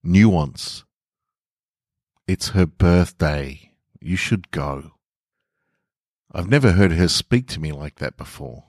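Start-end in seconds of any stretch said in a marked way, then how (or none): 2.3-4.9 gentle. Acted. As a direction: ease him toward it kindly. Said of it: "gentle squeeze on the arm".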